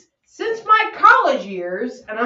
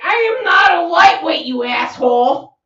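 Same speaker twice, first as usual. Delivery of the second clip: higher and louder playful protest; mock indignant; 7 semitones higher, 9 dB louder than usual. Denying to her co-host that she is a lightweight, mock indignant. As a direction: fake offended snap at a friend.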